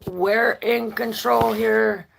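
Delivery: a hint of a proud body bragging, drawn out; mock body bragging; body's voice. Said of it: "perhaps this is this saying, like".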